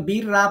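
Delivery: বীর রা with an unrounded "raa"; thin ra. Shown as a demonstration. Teacher explains the mistake, বীর রা said with thin ra. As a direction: keep the end of বীর রা light and open. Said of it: "রটাকে বারিক করে ফেললো".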